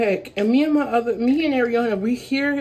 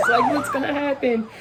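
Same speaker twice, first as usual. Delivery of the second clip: freaking out; 3 semitones higher than usual. Retold or imitated. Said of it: "I'm freaking out".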